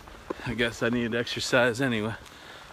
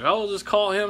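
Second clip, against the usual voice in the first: higher, lightly voiced mom; breezy mom telling him to just call; mom's advice; 9 semitones higher, 4 dB louder than usual. Mom urging him to call his brother, a higher lightly voiced mom. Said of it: "she's like".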